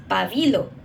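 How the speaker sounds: pa-BI-lo, middle syllable lifted; stress on second syllable. Retold or imitated. Speaker recalls the word from making hallacas, stressed pa-BI-lo. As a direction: say pabilo with the stress on BI. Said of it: "Even the stress of the word".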